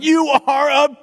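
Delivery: very high, very loud, slow cartoon shout; shrieking cowboy toy yell; Woody yelling. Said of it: "Woody yells out".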